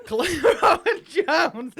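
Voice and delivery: high, loud Texan attempt, laughing; botched, hammed-up Texan; Texan accent.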